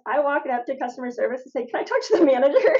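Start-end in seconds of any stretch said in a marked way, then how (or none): 1.7-2.7 put-on kid voice. Child addressing store clerk.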